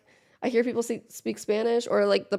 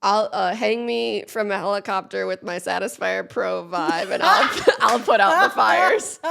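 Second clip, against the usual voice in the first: laughing; 5 dB louder than usual. Retold or imitated. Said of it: "I said".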